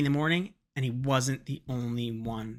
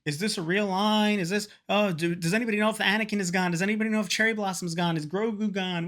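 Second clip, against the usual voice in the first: panicky crowd; 6 semitones higher than usual. Retold or imitated. Panicked crowd asking questions.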